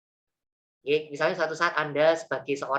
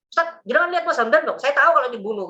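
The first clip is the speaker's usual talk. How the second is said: urgent raised plea, higher and louder; pleading pursuer; 8 semitones higher, 5 dB louder than usual. Retold or imitated. A man chasing Hamdan urges the ustaz, urgent high plea. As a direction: beg the ustaz not to reveal him.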